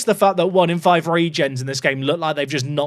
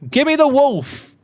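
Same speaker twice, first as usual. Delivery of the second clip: eager demand; 8 semitones higher, 4 dB louder than usual. Real, not acted. Wanting to sign a player.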